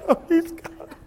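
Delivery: high, hammed-up whine of a defeated devil; mock crying devil. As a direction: play the devil wailing in defeat, half in jest. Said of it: "Satan was crying".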